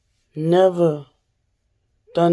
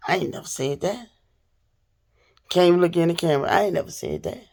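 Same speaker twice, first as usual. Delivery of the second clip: mock Friday denial; faster than usual. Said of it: "You know that movie Friday?".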